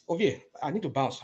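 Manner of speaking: ordinary talk, nothing marked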